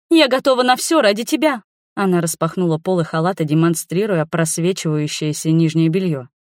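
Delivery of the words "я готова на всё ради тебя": put-on high, eager girlish voice; girl gushing to the man she adores; smitten girl. A narrator's reading. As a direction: gush it high and hopeful. Girl offering herself.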